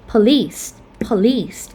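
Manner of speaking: "police" stressed on LICE; weak first syllable, strong end in "police"; "police" as puh-LICE, twice; second-syllable stress. Shown as a demonstration. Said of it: "we stress at the second syllable".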